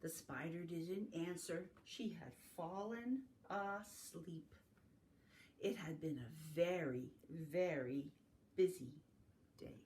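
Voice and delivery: unhurried story ending with pauses; reading to children. A narrator's reading. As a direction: close the bedtime-style tale gently. Winds down the story.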